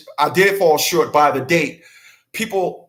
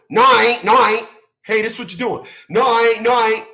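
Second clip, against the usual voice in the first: denying; 4 semitones higher, faster than usual. Retold or imitated. Person caught out, flatly denying it, raised voice. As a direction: keep saying no, defiant. Acted denial in quoted exchange.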